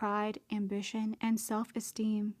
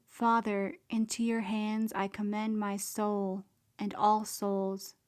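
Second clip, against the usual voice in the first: crying out. Acted. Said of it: "You not only cry out with your voice".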